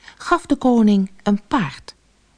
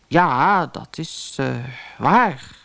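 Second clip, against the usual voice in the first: halting, hesitant king; cornered and faltering; reluctant admission; 4 semitones lower, slower than usual. A narrator's reading. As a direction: concede it bit by bit, with gaps. King reluctantly admits his promise.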